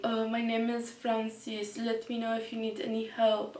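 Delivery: lightly voiced store clerk; a hint of a polite salesman; mock clerk intro; imitating sales clerk. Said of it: "he was like".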